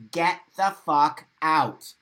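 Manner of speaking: loud and slow, each word punched; blunt, heated order to leave; forceful command. Real, not acted. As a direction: slam the door on it out loud. Angry advice to leave groups.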